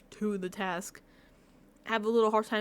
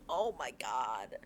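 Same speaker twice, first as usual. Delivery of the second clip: tag; 10 semitones lower, 10 dB quieter, much slower than usual. Retold or imitated. Retold despair at contestants.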